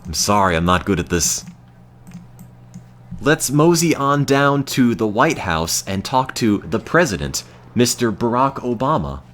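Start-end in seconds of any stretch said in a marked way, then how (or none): 3.2-9.2 mock cowboy accent. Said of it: "Saying anything in that voice".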